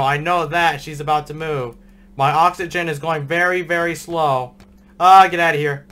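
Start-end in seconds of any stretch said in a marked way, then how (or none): 5.0-5.9 yelling. Real, not acted. Scared gamer yelling at monster.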